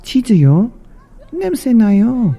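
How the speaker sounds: high, quick mouse wrinkling her nose; high fast mouse in Korean; mouse disgusted. Acted. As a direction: squeak it out, grossed out. Mouse rejects smelly cheese.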